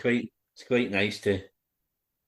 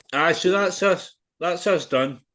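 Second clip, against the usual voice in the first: laughing; 7 semitones higher, 4 dB louder, slower than usual. Real, not acted. Laughing after the story.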